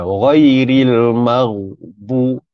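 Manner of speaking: ghairil maghbu very slow, ghain unbounced; correct ghairil maghbu. Shown as a demonstration. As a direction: recite slowly without qalqalah. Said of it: "kalau dibaca secara qalqalah". (ghairil maghbu tanpa qalqalah)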